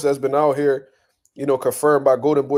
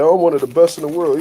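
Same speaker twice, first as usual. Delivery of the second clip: louder, mock-defensive claim; a touch of hammed-up pride; mock proud insistence; 5 dB louder than usual. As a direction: imitate a fighter insisting on his rank. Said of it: "Jermell was like".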